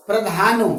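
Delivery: प्रधानो as one separate chunk with a long middle vowel; reading demonstration. Shown as a demonstration. Teacher giving the next chunk to read, demonstrating प्रधानो. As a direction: read प्रधानो firmly on its own. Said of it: "फिर क्या पढ़ेंगे?".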